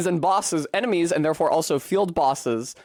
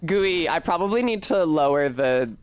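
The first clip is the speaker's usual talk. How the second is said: lightly played ditzy bimbo; a hint of a gum-smacking floozy. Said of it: "bimbo voice terminated".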